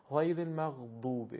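slow «غیر المغضوب» with a heavy Arabic ض; Arabic dad. Shown as a demonstration. Teacher demonstrates the right-side articulation, heavy ض in «المغضوب». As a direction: say ض in «المغضوب» with the tongue's side against the molars.

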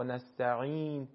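"نستعین" with the beat on the long final "ii"; stress on long ya. Shown as a demonstration. Teacher placing the strike in "نستعین", on long ya. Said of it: "روی یای مدی".

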